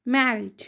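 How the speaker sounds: "मैरिड" with a single light R; "मैरिड", R hardly sounded, falling; correct pronunciation. Shown as a demonstration. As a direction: glide over the R in "मैरिड". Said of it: "आर का sound ये बहुत हल्का होता".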